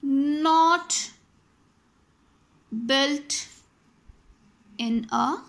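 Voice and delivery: each word spaced out slowly. Shown as a demonstration. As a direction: dictate the sentence slowly to students. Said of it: "If I say".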